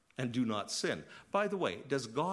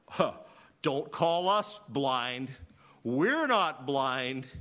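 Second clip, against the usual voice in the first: indignant Pharisees; 6 dB louder, much slower than usual. Retold or imitated. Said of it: "When the Pharisees make this comment".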